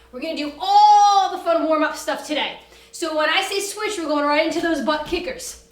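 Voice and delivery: loud, pumped call-out to the class; barking gym coach. Real, not acted. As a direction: bark the countdown like a fitness coach. Coach calling out warm-up cues.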